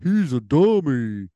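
lightly voiced dopey cartoon dog, drawn out; mock the commercial dog's dim voice; a hint of a slow dopey dog; dumb dog voice. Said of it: "I don't like the voice they give the dog".

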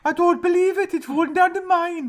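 very high cartoon Geordie wail; mock Geordie accent. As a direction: squeal it in a hammed-up Geordie accent. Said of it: "That's Geordie now".

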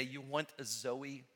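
ordinary talk, nothing marked

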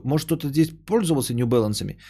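usual speaking voice

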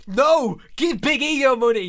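joking loud objection; mock protest. Real, not acted. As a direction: protest in jest. Mock protest at Edge's dollars.

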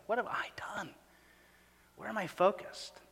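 softly whispered self-question. Acted. Pastor voicing a searching heart, whispered. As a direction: breathe it as a private confession.

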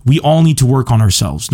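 usual speaking voice

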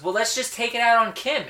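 lightly voiced Chris; mock Chris. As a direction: toss it off like a bright idea. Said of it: "Voices were spot on".

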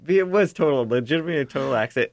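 high, loud and rushed; emphatic insistence. Real, not acted. Defending himself to the hosts, high and fast. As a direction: insist hard it was an accident.

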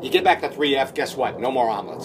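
lightly imitated actor addressing the whole cabin; playing to the crowd, mock-serious deliberation; Vince Vaughn. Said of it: "It's that Vince, Vince Vaughn voice".

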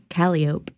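"calliope" as kuh-LIE-uh-pee; standard calliope. Shown as a demonstration. Asking why locals differ, standard pronunciation. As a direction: say "calliope" in four syllables, stressing LIE. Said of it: "instead of calliope".

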